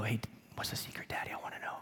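put-on kids whispering back. Sons lean in and whisper back.

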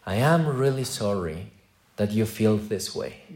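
a touch of snide mock-sorry; mock fake apology. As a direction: imitate a hollow, blaming apology. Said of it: "forgiveness in the world in this way".

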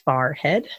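"farhead" for forehead, first part like FAR; Philly-area pronunciation. Shown as a demonstration. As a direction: say farhead, with FAR then HEAD. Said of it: "certain key words that tell me exactly if they're from".

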